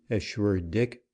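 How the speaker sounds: ordinary delivery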